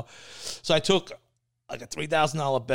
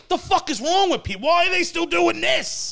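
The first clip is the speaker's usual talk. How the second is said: retold exasperation; 4 dB louder than usual. Retold outrage at people on road.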